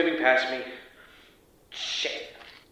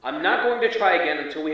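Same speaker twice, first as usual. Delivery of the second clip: irritated demand; 5 semitones higher, faster than usual. Acted. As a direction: tell them flatly to send the bot. Agent refusing to continue.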